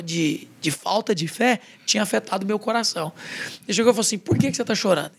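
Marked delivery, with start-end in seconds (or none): 4.2-5.1 mildly stern imitation of dad; a touch of retold anger, understated; retold angry question. Father confronting his crying son, mildly angry imitation.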